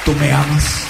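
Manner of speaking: tender. Acted. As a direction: ask gently, phrase by phrase. Acts Jesus tenderly restoring Peter.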